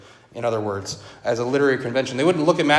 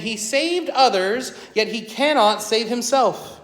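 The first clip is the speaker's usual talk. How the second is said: mocking priests; 6 semitones higher than usual. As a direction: taunt him, daring him to come down. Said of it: "they mocked him".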